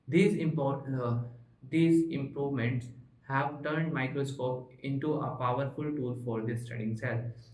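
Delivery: slow, careful reading aloud; textbook reading. Shown as a demonstration. Teacher reading the textbook slowly to his class. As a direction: read the textbook line by line to students.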